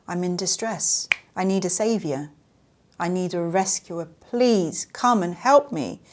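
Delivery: mock pleading, building in urgency; lightly acted helpless victim begging for rescue; damsel in distress. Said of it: "can play the damsel in distress".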